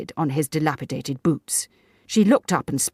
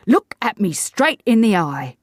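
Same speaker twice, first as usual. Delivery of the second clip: higher, louder stern order; stern command; 6 semitones higher, 6 dB louder than usual. A narrator's reading. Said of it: "commanded Mister Davis sternly".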